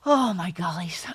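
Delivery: breathy whisper. Real, not acted. Overwhelmed by the question.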